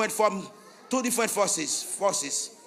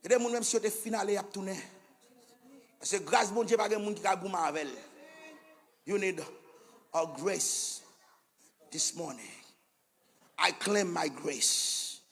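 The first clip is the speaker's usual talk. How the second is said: hushed preaching; 4 semitones lower, 9 dB quieter than usual. Real, not acted. Preacher drops to hushed intensity.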